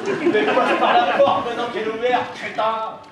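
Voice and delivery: high, loud telling-off; exasperated scolding. Acted. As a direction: snap loudly at a hopeless idiot. Exasperated brother scolds him.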